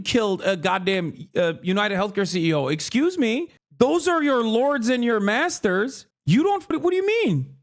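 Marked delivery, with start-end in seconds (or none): 2.7-7.5 mock indignant elite.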